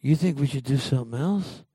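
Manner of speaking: lightly mock the stubborn leader; mock Rick laying down the law; bossy Rick Grimes.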